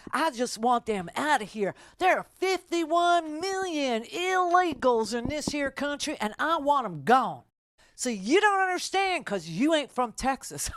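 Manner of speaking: lightly voiced angry line-mate; mock Texan ranter. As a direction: play the guy griping about illegals. Voicing the angry Texan guy.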